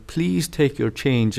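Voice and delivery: gently polite checkout voice; lovely polite. Retold or imitated. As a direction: say it nicely and politely. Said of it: "in a lovely, polite manner".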